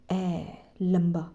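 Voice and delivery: ए drawn out slowly, a long vowel. Shown as a demonstration. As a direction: stretch the ए long and slow. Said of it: "ए की जो sound है वो है". (लंबी ए, धीरे खींच कर)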